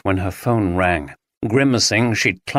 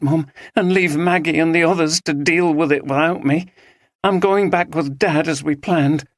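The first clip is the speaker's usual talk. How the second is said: determined; 8 semitones higher than usual. A narrator's reading. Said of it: "daughter's determined character".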